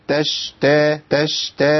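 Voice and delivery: تشتا with the sh pushed toward a ch sound; تشتا with a clipped ch-like sh; wrong sh. Shown as a demonstration. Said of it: "ما أقولش تشتا".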